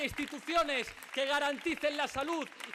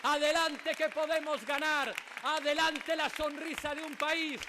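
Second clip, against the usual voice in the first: booming balcony speech. Real, not acted. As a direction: drive the crowd home with each adelante. Closing rally chant, building crowd cry.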